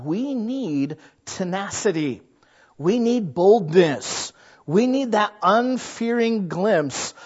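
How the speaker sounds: slow, weighty pulpit cadence; slow preaching. Acted. Preacher slowly exhorts the congregation toward tenacity. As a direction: let each phrase land slowly.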